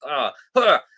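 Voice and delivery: loud acted groans of cringe; pained "ah", acted out; cringing groans. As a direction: groan twice in recoil. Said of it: "those kind of layers where it's just".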